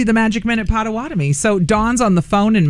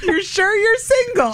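put-on Australian accent; 11 semitones higher than usual. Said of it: "In a little Aussie".

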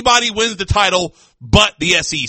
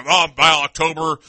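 mocking imitation; 6 semitones lower than usual. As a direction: drag it out low to mock him. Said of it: "He's like".

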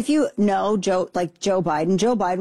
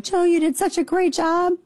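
mock Jill Biden; 11 semitones higher than usual. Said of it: "she ran out and was like".

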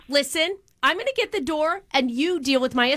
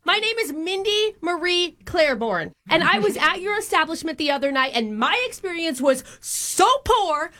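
entitled Karen. Acted. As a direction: play the outraged customer. Prank caller demanding refund.

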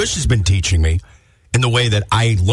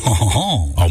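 put-on French "oh-ho-ho" laugh; hammed-up French chuckle; mock French laugh; 3 semitones lower than usual. Co-host shows what to do for his girl, mock French laugh. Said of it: "You just look at your girl and go".

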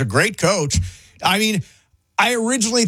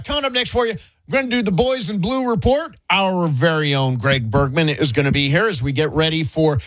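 radio host tease. Acted.

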